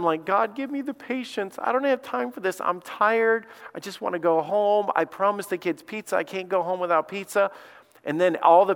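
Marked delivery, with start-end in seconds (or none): 0.2-7.5 higher, strained plea to God, at the end of his rope; a tired dad begging for patience, voice pitched up; frustrated dad praying in a long pizza line, pleading high; exasperated prayer. Retold or imitated.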